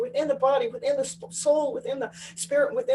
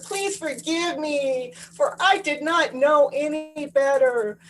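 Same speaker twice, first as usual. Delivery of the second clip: emphatic heartfelt; slower than usual. Shown as a demonstration. Speaking to the child within you, slow and emphatic. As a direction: pour energy into every word, very slowly. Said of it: "I'm putting the emphasis and the energy".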